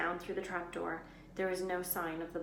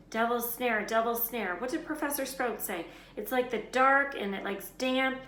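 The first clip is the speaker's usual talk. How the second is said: choked; 6 semitones higher, 8 dB louder than usual. A narrator's reading. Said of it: "Harry choked".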